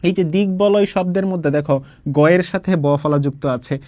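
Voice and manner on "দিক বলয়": দিক বলয় run together with a g before the b; both গ and ব sounded. Shown as a demonstration. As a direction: say দিক বলয় as "dig-boloy". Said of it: "গয়ের উচ্চারণও হবে এবং বয়ের উচ্চারণও".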